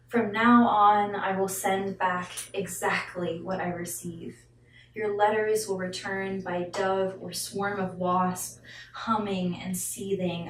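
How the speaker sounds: deliberate spoken-word reading with emphatic openings; poetry recitation. Acted. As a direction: declaim the poem firmly, dropping on the last line. Reads poem after introducing it.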